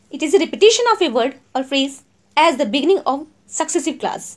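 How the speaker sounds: each word spaced out for notes; slow, clear classroom dictation. Shown as a demonstration. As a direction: read it out slowly so students can write. Dictates definition slowly.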